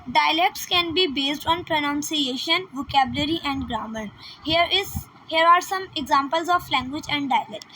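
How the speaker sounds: slow, careful reading of an English definition; slow textbook read. Shown as a demonstration. Teacher reading a definition to students, slow and careful. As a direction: read each word out slowly for the class. Reads definition aloud slowly.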